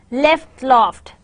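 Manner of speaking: "Left" with short e, "loft" with rounded o; minimal pair. Shown as a demonstration. Teacher reads minimal pairs to learners, distinct vowels. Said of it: "some minimal pairs".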